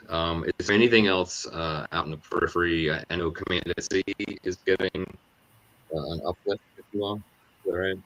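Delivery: crackling mic breaking up; words cutting out over a bad mic; clipping distorted mic. Real, not acted. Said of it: "Your, your mic is, is crackling".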